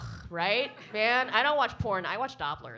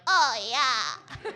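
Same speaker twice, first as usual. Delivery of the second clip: high mock moan, laughing; mock porn moan with a laugh; 4 semitones higher, 7 dB louder than usual. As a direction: imitate a porn actress moaning. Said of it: "They're like".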